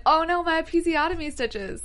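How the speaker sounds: high-pitched, crying-out alarm; mock distressed wail. Quoting her mid-climb, hammed-up distressed wail. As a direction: wail it as if in pain. Imitates character in sudden pain.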